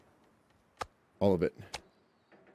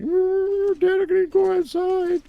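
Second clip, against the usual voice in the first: dog voice; much slower than usual. Retold or imitated. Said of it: "He's like".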